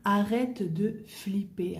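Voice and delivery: slow spoken "Arrête de flipper", stress on "Arrête"; slow clear model phrase. Shown as a demonstration. Teacher repeating slang slowly and aloud.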